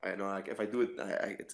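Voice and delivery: low, soft, careful not to wake anyone; quiet, hesitant explanation; hushed. Real, not acted. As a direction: keep it down for someone asleep. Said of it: "my name is sleep right now".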